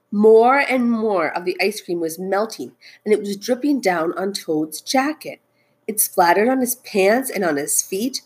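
expressive picture-book narration; storytelling. A narrator's reading. Teacher reads Frog and Toad aloud, storytelling. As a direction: read it out to children, stressing key words.

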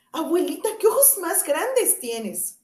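put-on high, slow, wide-eyed child's question; wondering little girl. Caperucita asks her grandmother, slow and amazed. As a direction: ask slowly, amazed at the ears.

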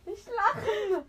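high, loud, drawn-out warning; urgent order. Real, not acted. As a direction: call it out slowly and loudly. Orders friend not to laugh. (laut und gedehnt ermahnen)

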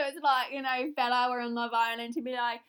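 loud, hammed-up Love Island Scouse; attempted Scouse. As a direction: play a reality-show contestant with a Scouse accent. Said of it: "That's Scouse, if you're wondering, or an attempt".

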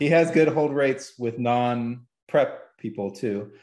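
slowed down, laughing through the words. Real, not acted. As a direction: chuckle through the line while giving away a secret. Laughing while revealing defenses.

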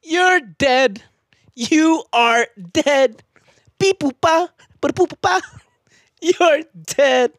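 high, slow dramatic declaring; slam poetry delivery. Pretend. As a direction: hammer out the verdict. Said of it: "Angry. Yelling".

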